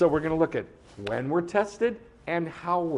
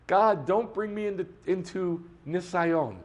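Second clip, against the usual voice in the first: praying voice; 4 semitones higher than usual. Retold or imitated. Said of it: "We pray this every morning".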